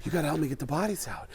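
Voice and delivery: a hint of winded distress; lightly breathy stressed-out plea; out of breath Mark Wahlberg. Shown as a demonstration. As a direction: few words at a time, stressed. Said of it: "This is the whole Mark Wahlberg impression".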